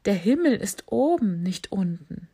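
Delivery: giraffe voice. Acted. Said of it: "kicherte die Giraffe".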